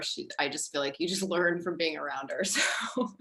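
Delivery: choked-up whisper. Real, not acted. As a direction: breathe it out, moved. Emotional thanks to teacher.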